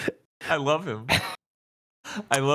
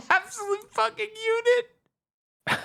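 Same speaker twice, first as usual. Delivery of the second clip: squeaky slow voice; slower than usual. Real, not acted. Admiring the shark, laughing.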